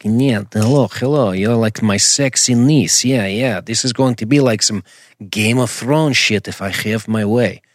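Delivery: lightly voiced sleazy Russian uncle; creepy Russian uncle. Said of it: "this really creepy dude, real creepy Russian".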